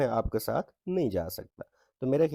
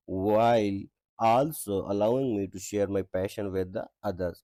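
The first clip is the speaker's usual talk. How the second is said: slow textbook reading; much slower than usual. Shown as a demonstration. Reads textbook English aloud.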